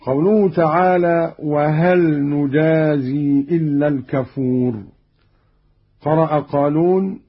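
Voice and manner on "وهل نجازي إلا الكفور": نجازي as nujaazee; nun, active reading. Shown as a demonstration. Teacher quotes the verse before the variant, نجازي as nujaazee. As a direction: say نجازي with nun and kasra on zay. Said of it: "بالياء".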